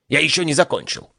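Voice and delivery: lightly high pompous reciting; pompous god voice. Acted. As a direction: carry on reading pompously. God continues reading.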